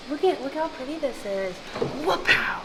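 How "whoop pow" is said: sudden jump-scare yelp; startling boo. Pretend. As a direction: pop out to startle. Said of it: "Did I scare you?".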